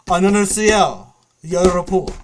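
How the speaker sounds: loud mock squeal, slightly high; imitated screaming girl. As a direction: mimic a girl yelling over game chat. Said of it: "girl screaming".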